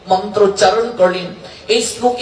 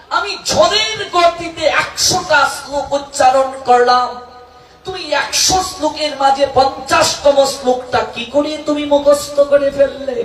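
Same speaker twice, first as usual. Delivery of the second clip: raised, amazed disbelief; higher, incredulous exclamation; astonished outcry; 4 semitones higher than usual. Acted. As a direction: cry out in stunned wonder at the boy. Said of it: "Keshab পণ্ডিত অবাক বিস্ময়ে ভাবলেন".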